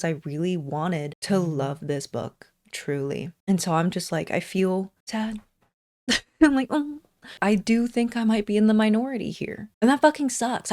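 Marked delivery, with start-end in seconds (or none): 6.1-7.0 laughing. Real, not acted. Deflated laugh at own sadness.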